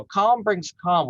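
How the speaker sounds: slow, drawn-out reassurance; slow your voice right down; slow calm phrase. Shown as a demonstration. Coach modelling slowing down when upset, slow calm words. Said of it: "you slow down your voice".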